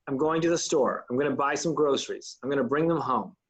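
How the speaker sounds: each sentence sinking on "store", "groceries" and "home"; falling ends. Shown as a demonstration. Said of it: "tends to go down at the end of each sentence".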